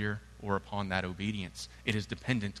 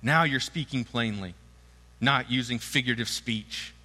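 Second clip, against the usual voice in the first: eager disciples; 4 dB louder than usual. Acted. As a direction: play the thrilled disciples. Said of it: "his disciples said".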